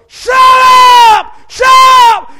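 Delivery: high, loud shut up; furious shouting neighbor; angry neighbor yell. Retold or imitated. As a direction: bang back at the noisy prayers. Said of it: "knocking the door".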